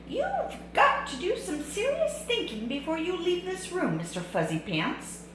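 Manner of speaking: high, stern mama voice; lecturing mother. Acted. Mother lectures her son in his room, high stern voice. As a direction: lay down the law like a mom. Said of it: "said his mother".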